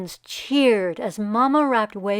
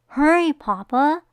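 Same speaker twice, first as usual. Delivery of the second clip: urgent call; 5 semitones higher, 6 dB louder than usual. Acted. Child urging father to hurry.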